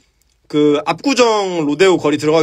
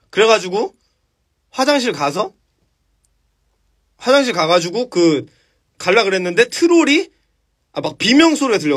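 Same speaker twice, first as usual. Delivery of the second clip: ordinary delivery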